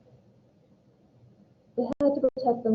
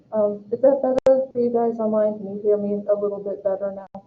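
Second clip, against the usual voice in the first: talking through a mask. Real, not acted. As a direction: project through a face mask. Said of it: "so I'm gonna try to talk like this".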